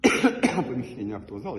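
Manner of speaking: slightly hoarse from a cold; speaking through a cold, coughing; having a cold. Real, not acted. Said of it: "немного простужен".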